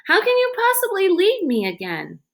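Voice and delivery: high, fierce, pleading outburst; fierce plea. A narrator's reading. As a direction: refuse to let him go, fiercely. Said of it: "with a ferocity that surprised even her".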